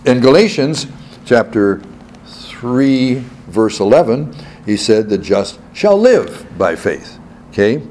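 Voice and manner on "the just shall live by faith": "shall live" drawn out slowly; slow down and weight "live"; stress on LIVE. Shown as a demonstration. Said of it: "that is emphasizing the life".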